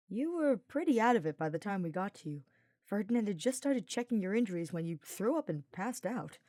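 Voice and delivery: lightly voiced teasing knight; a hint of a cheeky young knight, grinning; Sylvain's voice. Sylvain teasing Hubert while carrying him, lightly voiced.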